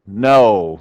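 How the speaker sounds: NO said firmly, a long stressed word; emphatic. Real, not acted. Lecturer giving the class the answer, an emphatic NO. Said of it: "An emphatic".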